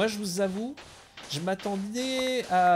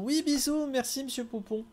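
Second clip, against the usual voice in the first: mock high-pitched thanks; 10 semitones higher than usual. Playful sign-off to viewer.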